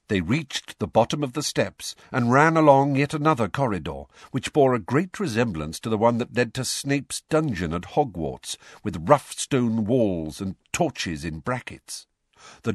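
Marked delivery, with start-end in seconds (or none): none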